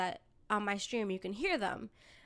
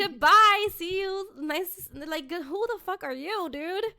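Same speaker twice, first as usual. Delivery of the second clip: sassy brush-off; 7 semitones higher, 6 dB louder than usual. Retold or imitated. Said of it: "I was like".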